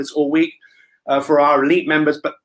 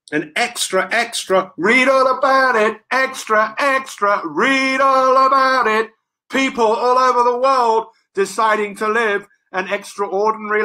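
newsboy calling out; 4 semitones higher, slower than usual. Pretend. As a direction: call out headlines like a street paperboy. Newspaper seller calling headlines.

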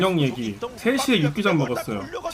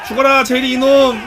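excited yelling; 5 semitones higher, 6 dB louder, much slower than usual. Real, not acted. Streamer cheers the winning fight.

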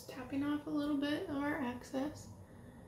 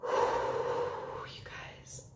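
whispering. Real, not acted. Stunned by the result.

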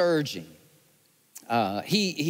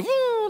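high siren wail, woo woo; siren imitation. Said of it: "do it again".

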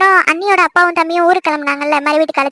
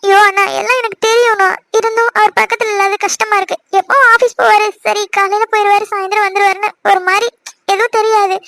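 upset, pleading with a raised pitch on peaks; tearful; 2 semitones higher than usual. Acted. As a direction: pour out how much you miss him, near tears. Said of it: "அதுக்கு போய் இப்படி அழுதுட்டு இருக்க?".

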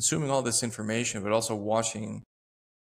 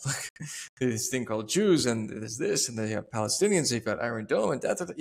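rambling verbal diarrhea. Retold or imitated. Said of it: "this verbal diarrhea of like".

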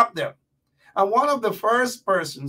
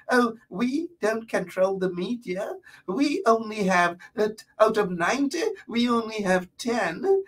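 mocking fake Canadian accent; 3 semitones higher than usual. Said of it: "she has such a fake accent".

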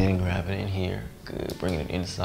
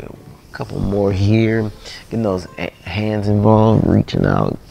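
strained effort; 8 dB louder than usual. Real, not acted. Straining deep in a stretch.

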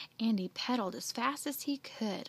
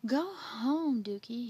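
shouting; 2 semitones higher, 4 dB louder, slower than usual. Acted. Andy sending his dog Dookie home, shouting. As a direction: order the dog home in a raised voice. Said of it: "he shouted".

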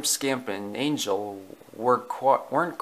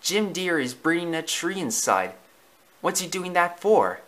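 higher, lightly voiced pups; puzzled puppies; 5 semitones higher than usual. Puppies report the tree to Mama, lightly voiced curiosity. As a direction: ask Mama like a curious pup.

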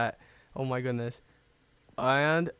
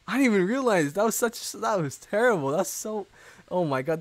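shocked disbelief; 5 semitones higher than usual. Real, not acted. Shocked at opponent's move.

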